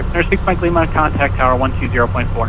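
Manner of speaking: phone-line audio, narrow and thin; over a landline phone. Real, not acted. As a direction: controller talking through a phone line. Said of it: "I'm on the landline".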